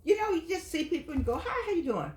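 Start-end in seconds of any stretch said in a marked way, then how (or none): 1.4-2.1 cheery greeting. Retold or imitated. Acting out greeting strangers.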